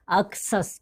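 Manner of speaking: "अक्सस" said with ks in the middle; pronunciation demo. Shown as a demonstration. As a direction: read out "अक्सस" as AK-sus. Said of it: "इस word को हम क्या पढ़ेंगे".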